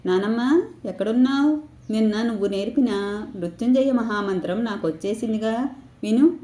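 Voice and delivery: a hint of an excited child calling grandma; eager grandson. (అమ్మమ్మను పిలిచే మనవడిలా కాస్త ఉత్సాహంగా)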